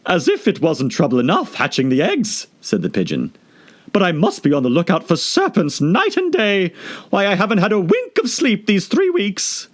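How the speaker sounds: harassed bird listing its woes; fretful pigeon. Acted. Pigeon complaining to Alice, fretful.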